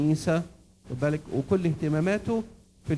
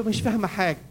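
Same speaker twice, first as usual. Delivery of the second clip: higher-pitched mock complaint; complaining wife; 5 semitones higher than usual. Wife to husband at the play, complaining. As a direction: lightly act a wife who is lost. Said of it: "تقول له".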